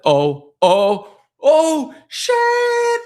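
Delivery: rising terrified yelp as the bully nears; panicked kid. Retold or imitated. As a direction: pitch climbing into a squeal of panic. Kid hearing bully approach.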